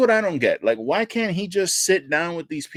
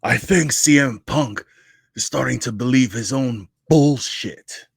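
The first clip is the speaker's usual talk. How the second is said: slow, louder mock voice, every word drawn out; mock paraphrase; 5 dB louder, slower than usual. Co-host paraphrasing the other's opinion, slow mocking voice. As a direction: put words in his mouth with a sneer. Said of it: "you're saying".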